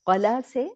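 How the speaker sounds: قلا with a short a, no stretch; short a, no madd. Shown as a demonstration. Teacher contrasting قلا without the alif. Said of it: "الف ہٹا دوں تو یہ بن جائے گا قلا".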